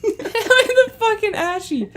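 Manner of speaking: laughing. Real, not acted. Laughing repeat.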